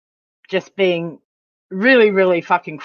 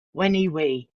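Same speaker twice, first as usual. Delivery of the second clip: mock German lady; 3 semitones lower, 5 dB quieter than usual. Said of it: "German lady said".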